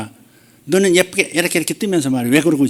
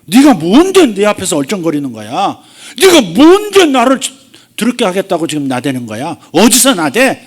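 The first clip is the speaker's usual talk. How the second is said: louder, sharp rebuking challenge; loud, fierce rebuke with a high peak; scolding rebuke; 5 semitones higher, 7 dB louder than usual. Retold or imitated. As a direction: scold the enemy away. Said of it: "꾸짖는 겁니다".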